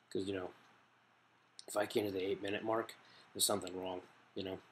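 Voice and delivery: lips on pipe between words; puffing while speaking; talking around a mouthpiece. Real, not acted. Seen 1: Green ridged tube held to lips intermittently while talking; not R frames.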